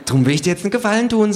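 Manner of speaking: hohe, schnelle Figurenstimme; Känguru. Acted. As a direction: rasch und hoch ein Angebot machen. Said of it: "sagt das Känguru". (schnelle, hohe Känguru-Stimme)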